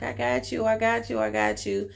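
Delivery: acting out a friend's reassurance; retold reassurance. Lady reassuring crying Louis.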